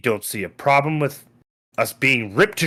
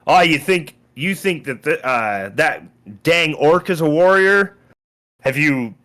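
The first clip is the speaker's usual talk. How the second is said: scoffing lord; 5 semitones higher, 3 dB louder than usual. Acted. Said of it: "He points out Krez and says".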